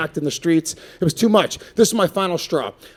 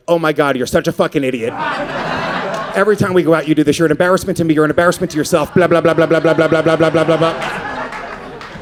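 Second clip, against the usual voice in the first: nagging wife. Retold or imitated. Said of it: "she's right in your ear going like".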